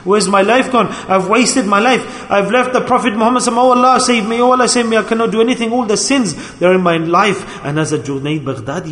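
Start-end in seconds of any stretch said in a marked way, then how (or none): 0.0-7.6 retold anguished plea, pitched higher; crying lament. A holy man grieving his wasted life to Allah, retold cry. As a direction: imitate a pleading lament without real tears. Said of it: "used to cry".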